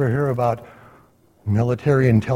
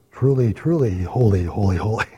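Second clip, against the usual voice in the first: "truly, truly holy, holy, holy" with each repeat weighted; with emphasis; 4 semitones lower than usual. Shown as a demonstration. Teacher showing ancient repetition in "truly, truly holy, holy, holy", emphatic. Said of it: "with emphasis".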